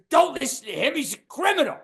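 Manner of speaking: hammed-up outrage at the cook; mock indignant warning. Owner warning the comic about the cook, rising to a shout.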